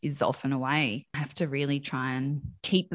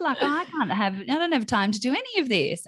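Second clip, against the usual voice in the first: higher-pitched indignant complaint; envious mock griping; 5 semitones higher than usual. Mum envying others' self-care, mock griping. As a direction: grumble in a raised, put-upon voice. Voices her envious thoughts.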